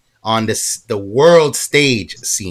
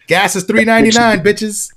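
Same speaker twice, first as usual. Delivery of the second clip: much higher, louder mock shout of a bold slogan; hammed-up catchphrase; 8 semitones higher, 4 dB louder than usual. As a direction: belt it like a brash billboard hype man. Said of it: "your face going".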